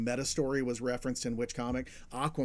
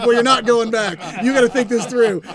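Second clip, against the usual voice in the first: stern father; 7 semitones higher, 13 dB louder than usual. Retold or imitated. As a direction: lay down the law like a grounding dad. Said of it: "And he's like".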